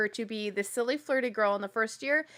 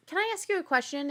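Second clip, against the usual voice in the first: mock sweet question; 6 semitones higher, faster than usual. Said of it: "So he goes".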